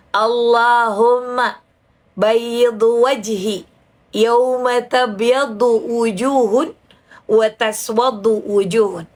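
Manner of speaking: very slow Arabic prayer recitation; deliberately drawn out. Shown as a demonstration. Demonstrating the face-washing prayer to a friend, deliberately drawn out. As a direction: stretch out each syllable of the prayer. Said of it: "saya lama-lamain".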